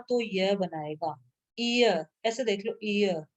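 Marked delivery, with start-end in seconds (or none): 1.6-3.2 "ईय" said as ee gliding into ya; teacher sounding out "ईय" as one joined sound; sound-blending demo. Shown as a demonstration. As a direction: run ee into a short ya in "ईय" to show the glide. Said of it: "ईय की sound आ रही है ना".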